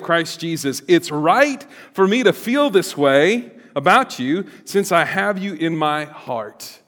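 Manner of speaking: earnest reading of a Bible passage, rising toward the end; scripture reading. Acted. Pastor reading Philippians to the congregation, earnest. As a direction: read the letter to the congregation with feeling. Reads Paul's letter aloud.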